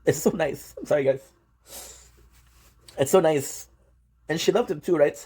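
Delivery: really moved, pausing to hold back tears; tearing up. Real, not acted. Viewer apologizing for getting emotional over a sweet story, tearing up. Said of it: "I fucking teared up".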